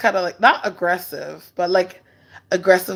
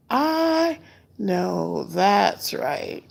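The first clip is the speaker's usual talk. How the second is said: drawn-out agreement; 4 dB quieter, much slower than usual. Acted.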